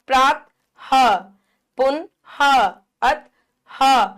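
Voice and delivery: प्रात, पुन, अत each followed by a separate, distinct ह; visarga as ह. Shown as a demonstration. Teacher demonstrating visarga, ह sounded out after प्रात, पुन, अत. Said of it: "इसका उच्चारण ह की तरह होता है".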